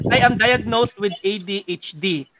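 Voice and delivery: slow, deliberate confession, each word spaced; slow announcement. Shown as a demonstration. Host slowly announcing his diagnosis to colleagues. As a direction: spell it out slowly like a big reveal. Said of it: "Actually, share ko".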